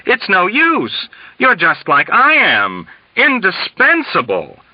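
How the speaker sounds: high, slow, plaintive lament; despairing colonel on the verge of tears; near tears. A narrator's reading. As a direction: whine it like a man about to cry. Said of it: "almost in tears".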